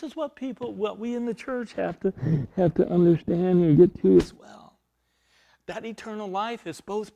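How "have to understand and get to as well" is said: preaching emphasis. Real, not acted. Preacher pressing the point.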